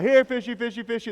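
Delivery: high sing-song coaxing call; lilting high call to the fish; Ernie calling fish. Retold or imitated. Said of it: "Ernie's just calling him out".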